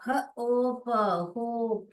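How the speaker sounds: ह, ओ, प sounded separately, then a long होप; phonics blending. Shown as a demonstration. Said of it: "blend करने आ रहा है क्या". (ह, ओ, प अलग-अलग, फिर लंबा होप)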